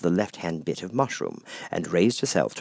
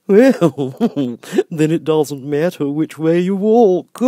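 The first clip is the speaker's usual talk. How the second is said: grinning Cheshire Cat; 8 semitones higher, 9 dB louder, slower than usual. Acted. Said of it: "said the cat".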